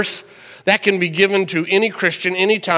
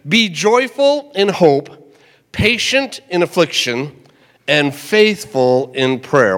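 slow, deliberate reading of the verse; measured pulpit recitation; slow scripture reading; slower than usual. Shown as a demonstration. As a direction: read the verse slowly so it sinks in. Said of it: "One more time".

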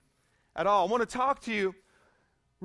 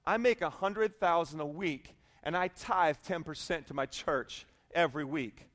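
calm, low, unbothered delivery; deadpan the relaxed castaway, in no hurry; kicked back; 5 semitones lower, 4 dB quieter than usual. Acted. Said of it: "just kicked back".

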